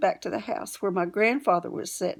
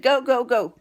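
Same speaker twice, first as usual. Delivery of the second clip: grandpa's reply; 6 semitones higher, 6 dB louder than usual. Retold or imitated. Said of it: "And he said".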